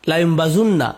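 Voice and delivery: লায়ুম বাজুন্না with a clear u in বাজুন্না; u-vowel reading. Shown as a demonstration. Teacher giving the third reading, with the u vowel. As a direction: say বাজুন্না, not বাজান্না. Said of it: "এর তিনটি কেরাত আছে".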